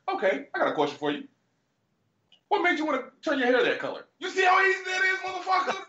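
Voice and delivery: fast, rising to a high mocking shout; sarcastic lesson ending in a yell; mocking exasperation. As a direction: speed up and shout the end. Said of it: "was like".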